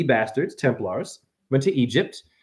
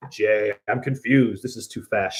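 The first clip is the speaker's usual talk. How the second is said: confused follower; 7 semitones lower, 5 dB quieter than usual. Acted. Confused follower questions guru Jay.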